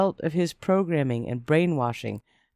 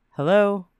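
loud, higher testy phone answer; testy, raised hello; 5 semitones higher, 6 dB louder than usual. A narrator's reading. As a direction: answer the phone sharply, a bit irritated. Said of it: "I answered it somewhat testily".

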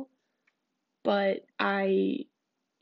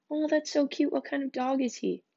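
higher, sweet fake enthusiasm; mock gushing; 5 semitones higher than usual. Reading her own cringy text aloud, higher and gushing. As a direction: gush over the dog a bit. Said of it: "I said".

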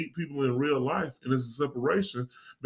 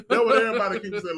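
fast, laughing through it; giggling fast; 7 semitones higher, 4 dB louder, faster than usual. Real, not acted. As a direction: talk while cracking up.

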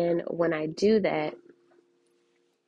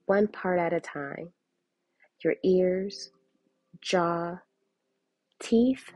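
walk them through relaxing, unhurried; guided relaxation. Acted. Reads the relaxation card aloud.

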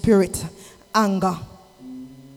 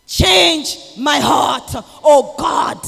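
slow prayer; 2 semitones higher, 6 dB louder, much slower than usual. Acted. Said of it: "prayer line repeated".

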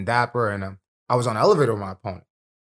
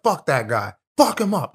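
mock heckle; 4 semitones higher than usual. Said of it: "support group was like".

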